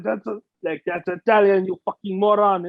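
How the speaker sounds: put-on lightly accented French scolding; mock French accent. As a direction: play an indignant Frenchman, a hint of accent. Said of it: "French go like".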